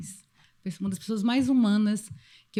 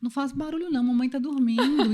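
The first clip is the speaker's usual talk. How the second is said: gentle hushing; 3 semitones higher than usual. Retold or imitated. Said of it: "escuto ele falando assim com ela".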